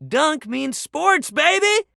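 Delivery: sports bro hype; hyped catchphrase. Acted. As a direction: pitch jumps way up on baby. Jock catchphrase shouted.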